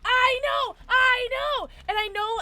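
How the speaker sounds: high, loud, drawn-out cries; emotional wail. Real, not acted. Streamer apologising to missed friends, emotional wail. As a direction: wail it in eager agreement.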